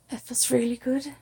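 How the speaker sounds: attempted Irish accent, lightly lilted; bad Irish accent. Shown as a demonstration. Improvising Irish for listeners who requested it, bad Irish accent. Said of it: "that's a really bad accent".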